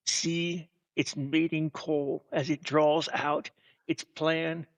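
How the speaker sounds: slow, hushed wildlife narrator; nature documentary. Pretend.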